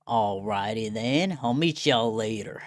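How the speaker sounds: light Southern US character voice; Southern accent. Acted. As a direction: play a folksy Southern tough guy. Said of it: "localize him as very southern".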